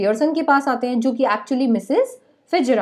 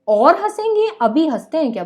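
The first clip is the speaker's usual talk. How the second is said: shocked husband; 5 semitones higher, 3 dB louder than usual. Retold or imitated. Husband shocked at club gossip.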